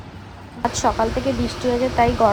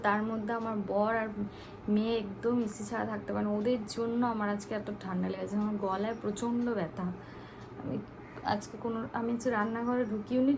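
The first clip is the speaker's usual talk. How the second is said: much softer, hushed talk through a sore throat; 13 dB quieter than usual. Real, not acted. Sore throat, speaking softly. (গলা ব্যথায় নিচু, নরম স্বরে কথা)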